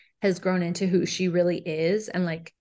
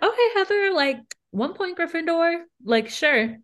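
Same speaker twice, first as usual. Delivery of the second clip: high, teasing voice handing out a point; higher sarcastic teacher giving a point; mock grudging praise; 4 semitones higher than usual. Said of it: "And I was like".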